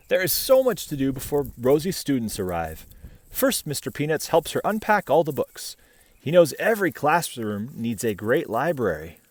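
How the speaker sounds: bright, even read-aloud voice; story narration. A narrator's reading. Reading a picture book to children, bright storytelling. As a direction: read the tale gently to little listeners.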